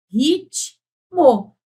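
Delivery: slow "Ritmo" with a clear break between "Rit" and "mo"; split into syllables. Shown as a demonstration. Teacher showing the class how "Ritmo" splits, syllable by syllable. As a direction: say "Ritmo" as two cut beats, rit-mo. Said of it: "Eu separo assim".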